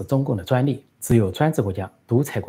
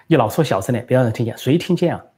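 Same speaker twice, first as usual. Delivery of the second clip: impatient; 3 semitones higher, 4 dB louder than usual. Retold or imitated. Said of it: "这个孟晚舟不耐烦地说".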